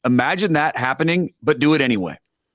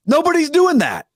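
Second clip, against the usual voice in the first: much higher, insistent; emphatic; 12 semitones higher than usual. Real, not acted. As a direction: insist nobody does it. Emphatic denial.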